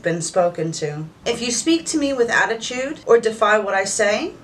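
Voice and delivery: commanding dominant mistress voice; evil queen. Acted. Holds mistress role throughout.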